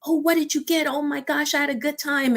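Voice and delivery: high, bubbly imitation of a chatty passenger; lightly acted excited gossip; excited chatter. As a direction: mimic ladies gushing in the back seat. Ladies chatting excitedly in car.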